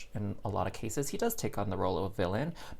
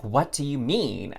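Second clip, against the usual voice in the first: slow, louder challenge; indignant; 3 semitones higher, 6 dB louder, slower than usual. Retold or imitated. Retelling how she challenged the guy, indignant. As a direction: demand an explanation, dragging the words out. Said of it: "never felt so insulted".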